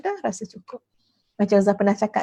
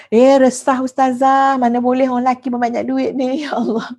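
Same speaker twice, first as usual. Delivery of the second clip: worried complaint, imitated; 4 dB louder than usual. Muslimat answering the ustazah's question, mock worried. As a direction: drag out a playful mock complaint. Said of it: "Ada muslimat jawab".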